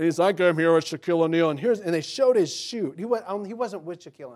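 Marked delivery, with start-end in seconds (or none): 0.4-1.5 announcer voice, louder. Retelling what an announcer said, in an announcer voice. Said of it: "with those really announcer type voices".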